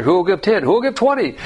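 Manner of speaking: hammed-up pitch for money; mock fundraiser caller. Mocks fundraiser auctioneer.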